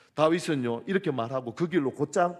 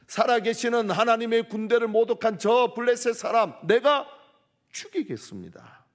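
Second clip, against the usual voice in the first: higher and louder, an indignant vow; David's anger; 10 semitones higher, 8 dB louder than usual. Acted. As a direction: hurl the vow out in holy rage. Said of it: "다윗만의 분노가 아닙니다".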